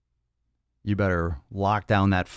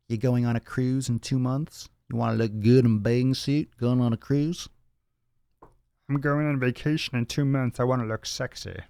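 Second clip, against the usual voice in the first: higher-pitched, put-on vacationer voice; mock-excited cruise-goer voice; teasing cruise voice; 5 semitones higher than usual. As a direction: tease him in a silly high voice. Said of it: "I don't know why I gave you that voice".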